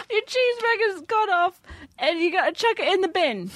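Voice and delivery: high, laughing fake London accent; bad British accent. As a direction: overdo the British slang. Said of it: "bad attempts at British accents".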